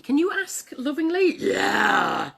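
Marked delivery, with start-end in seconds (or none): 1.4-2.3 loud dinosaur roar on a yell; unloving roar. Acted. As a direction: bellow it with no tenderness. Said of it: "That is not lovingly".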